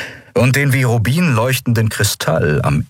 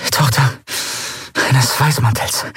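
curt reply; 7 semitones higher than usual. A narrator's reading. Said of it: "erklärte sie mit einem knappen Nicken".

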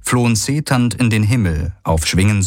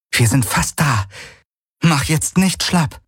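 urging rider; 7 semitones higher than usual. A narrator's reading. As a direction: keep him going, almost there. Kirai urges Ara on.

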